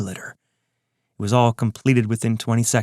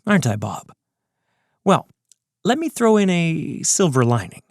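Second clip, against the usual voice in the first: higher, taunting villain, unhurried; smug villain voice; 5 semitones higher than usual. Acted. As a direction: gloat like a calm mastermind. Ron continues taunting.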